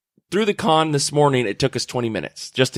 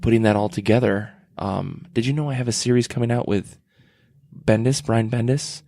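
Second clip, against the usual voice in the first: soft-spoken artist; 3 semitones lower than usual. Retold or imitated. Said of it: "most soft-spoken person in the world".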